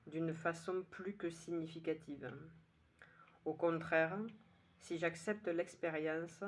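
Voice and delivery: measured poem reading, with pauses between lines; poem recitation. Acted. Poet reading today's poem to listeners, measured recitation. Reads own poem aloud.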